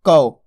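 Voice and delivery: कौ with a full au glide, falling and firm; teacher modelling कौ with open au; pronunciation demo. Shown as a demonstration. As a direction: sound out कौ clearly as k-au. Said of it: "का से क्या हो जाएगा".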